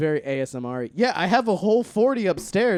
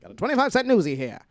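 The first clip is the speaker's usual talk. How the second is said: put-on higher, old-time street seller; old-timey newsboy; 5 semitones higher than usual. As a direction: hawk papers like a newsie. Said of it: "transatlantic accent".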